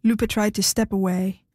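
ordinary delivery, nothing marked

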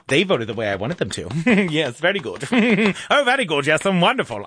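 hammed-up British approval with chuckles; silly put-on British accent; mock British. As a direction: play self-satisfied British onlookers, chuckling. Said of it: "I don't know why they're British".

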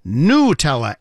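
Nutella with a pure "noo" like Italian, "noo-TELL-ah"; Italian ooh sound. Shown as a demonstration. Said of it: "must be pronounced with the Italian ooh sound".

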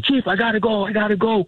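a pilot's panicked cry, replayed lightly; imitating the pilot's panicked high shout; retold scream. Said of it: "He's screaming".

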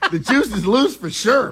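laughing while talking. Real, not acted. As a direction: chuckle through the line. Laughing at shared joke.

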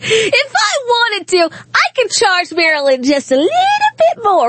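voiced governor's leverage. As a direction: drag it out as an imitated governor flaunting power. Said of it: "we already heard from the Pennsylvania governor".

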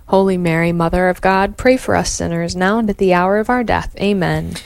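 steady devout rosary response; prayer recitation. Acted.

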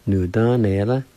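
"Nu, done, eh, la" run together as one word; careful teacher's repeat of "Nu, done, eh, la"; whole-word pronunciation demo. Shown as a demonstration. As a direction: model "Nu, done, eh, la" without breaks. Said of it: "I'll pronounce it one more time".

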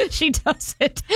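laughing. Real, not acted. Cracks up after fumbling the read.

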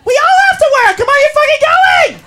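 loud, high, pushy party friend rounding everyone up; pushy organizer friend. Acted. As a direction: nag them into coming out, all excitement. Organizer friend urging the girls.

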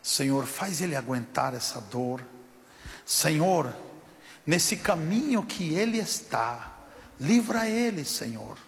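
gentle retold intercession; loving prayer. Stranger asking God to help the injured man, lovingly. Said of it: "Fez aquela oração amorosa".

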